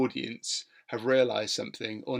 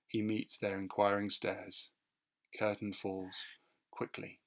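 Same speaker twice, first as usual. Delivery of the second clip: dramatic stage direction read, fading to a hush. Shown as a demonstration. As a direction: read it like the curtain is coming down. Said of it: "I'm just gonna read to you the final stage direction".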